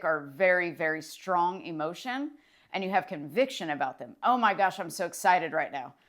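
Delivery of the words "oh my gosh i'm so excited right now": acted excitement, pitched up at the start; excited. Coach showing how strongly felt excitement talks, excited. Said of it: "when you've been the most excited".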